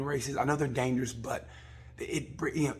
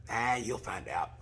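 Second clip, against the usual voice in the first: slow, lazy mock marshal voice; mock careless marshal; 3 semitones lower, slower than usual. Imitating marshal brushing off the rider, slow and careless. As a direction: shrug it off slowly, teasing.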